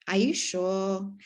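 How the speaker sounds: slow, doubting question; doubtful, questioning look. Shown as a demonstration. Therapist shows a client her doubt, slow and questioning. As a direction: let the doubt show as you ask it slowly. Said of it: "ways that we communicate with our face".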